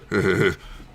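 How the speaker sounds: mock shuddering groan; cringing noise. YouTuber reacting to a mispronounced name, cringing noise.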